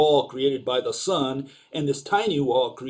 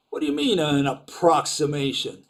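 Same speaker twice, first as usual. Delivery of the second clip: incredulous question. Real, not acted. Lecturer scoffing at the teacher's analogy, incredulous. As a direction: scoff at the word approximation as if absurd.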